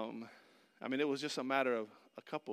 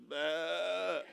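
mock bleating sheep, second one much louder; 4 semitones higher, 11 dB louder than usual. Preacher mimicking a silly sheep, bleating. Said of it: "A sheep just like".

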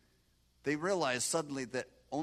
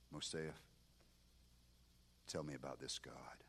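hushed whisper, much softer; low voice; 10 semitones lower, 13 dB quieter than usual. Retold or imitated. Officer quietly asking the soldier about God in a whisper. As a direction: whisper it so no one overhears. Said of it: "in low voice he said".

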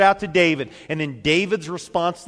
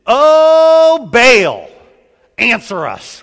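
loud pleading shout, much higher; desperate cry; 7 semitones higher, 14 dB louder, much slower than usual. Retold or imitated. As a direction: cry out to the idol at full voice. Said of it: "was their cry".

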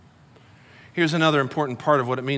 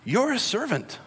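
softly voiced, higher-pitched gentle nudge; imagine the Spirit softly correcting you; soft, lifted voice with spaces between phrases; gentle reminder; 6 semitones higher, 5 dB quieter, slower than usual. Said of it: "will just gently say".

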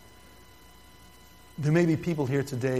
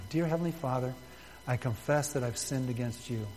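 softer, hushed repeat of the prayer; gentle, quieter personal prayer; softer inner prayer; 5 dB quieter than usual. Shown as a demonstration. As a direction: say it as if praying privately in the mind. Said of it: "Say that in your mind right now".

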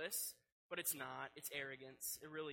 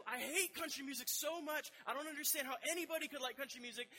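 higher, heated, fast-running tirade; mock rant; 6 semitones higher, 3 dB louder than usual. Pastor retelling how he ranted to his future wife, worked up. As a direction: pile on the complaints, building steam. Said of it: "I was on a rant".

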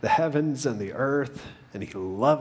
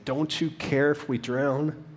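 higher, slow plea with mild fear; despairing plea; 5 semitones higher than usual. Retold or imitated. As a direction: retell a frightened plea, drawn out. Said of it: "in despair and fear".

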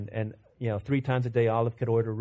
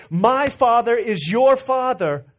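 solemn Jesus quote; 11 semitones higher, 9 dB louder, slower than usual. Acted.

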